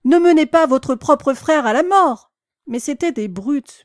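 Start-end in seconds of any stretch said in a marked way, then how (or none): 0.1-2.3 loud high pleading shout; pleading cry. A narrator's reading. Animals begging the cart horses, loud and high. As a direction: beg the horses to stop. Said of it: "criaient les animaux".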